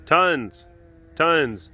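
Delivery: loud punchy repeat; emphatic. Real, not acted. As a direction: hammer the word home.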